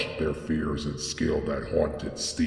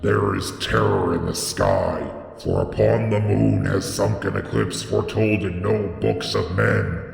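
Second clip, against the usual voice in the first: high, loud ecstatic shrieking, building higher to the end; frenzied prophet shrieking higher and higher; shrieking in the shadows; 5 semitones higher, 6 dB louder than usual. A narrator's reading. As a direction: cry it out, climbing higher as the awe grows. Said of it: "he heard Barzai the Wise shrieking in the shadows".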